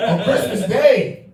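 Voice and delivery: loud, slow emphatic yell. Real, not acted. Comic yelling at the crowd about Christmas, slow and loud. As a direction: stretch it out and shout it. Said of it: "I don't know why I'm yelling".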